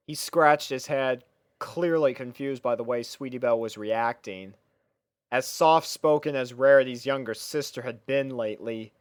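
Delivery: ordinary delivery, nothing marked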